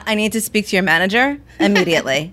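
lightly voiced entitled customer; a hint of firm Karen demand. Caller asking for the manager, mildly demanding Karen. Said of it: "I pulled a straight Karen".

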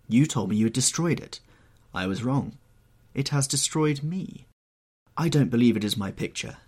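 lightly voiced, disbelieving painter; troubled painter. Painter refuses to believe it is his picture, troubled. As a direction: protest with mild agitation.

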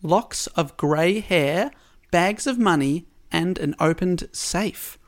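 measured storytelling, lingering on key words; story narration. A narrator's reading. Podcast host recounts the double murder at Rue Morgue, story narration. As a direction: read out a murder mystery with drawn-out phrases. Reads prepared story summary aloud.

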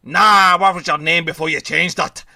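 loud opening in imitated Irish; half-hearted Irish accent attempt; mock Irish accent. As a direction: imitate a film star's bad Irish accent. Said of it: "tried to do that Irish accent".

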